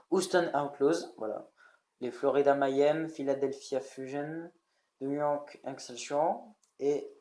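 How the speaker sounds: team names in a clumsy English accent; mock English accent. Shown as a demonstration. Young youtuber reading team names to viewers in a self-mocking English accent. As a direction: try an American accent on the names, half-hearted. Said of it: "attention à mon accent un peu beau".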